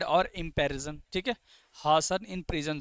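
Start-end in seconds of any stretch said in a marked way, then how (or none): 1.7-2.8 the student answers slowly, spacing out "in prison"; slow drawn-out student answer. Shown as a demonstration. Teacher voicing a student's answer, slow and drawn out. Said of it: "sorry".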